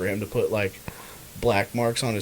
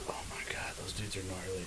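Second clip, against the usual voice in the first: awed whisper; 4 semitones lower, 18 dB quieter than usual. Real, not acted. Awed whisper about rugby players.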